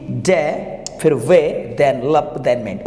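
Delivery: "डे", "वे", "लप", "मेंट" each set apart by pauses; syllable by syllable. Shown as a demonstration. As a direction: step through "डे", "वे", "लप", "मेंट" one beat at a time. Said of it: "इसका बन जाएगा syllable". ("डे", "वे", "लप", "मेंट" को अलग-अलग बोलें)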